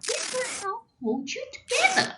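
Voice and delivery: quick, chirpy crayon-box helper; lightly voiced busy masking tape; cheery masking tape.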